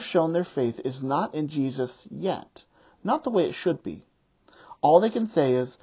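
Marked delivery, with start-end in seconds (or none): 3.0-4.1 hushed, voiceless aside; whisper. Real, not acted. Preacher to congregation about the disciples' faith, whispered. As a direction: whisper it like a sad confession.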